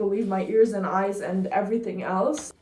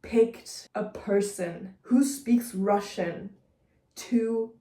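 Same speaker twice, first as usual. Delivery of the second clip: exasperated complaint; slower than usual. Retold or imitated. Exasperated retold complaint about casting.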